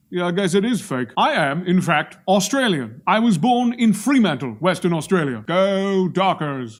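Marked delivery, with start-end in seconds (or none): 5.5-6.8 slow, drawn-out mock-uncaring cheer; feigned indifference. Invested fan backing his team, pretending not to care. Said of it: "I'm pretending to not care".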